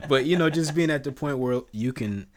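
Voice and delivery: talking through laughter, high and loud; laughing protest. Real, not acted. Friend waving off a joke about hugging neighbors, laughing. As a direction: laugh loudly while trying to get back on track.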